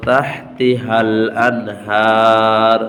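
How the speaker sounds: তাহতিহাল আনহার recited very slowly and melodically; drawn-out recitation. Shown as a demonstration. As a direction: chant it with long vowels. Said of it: "teacher recites the example".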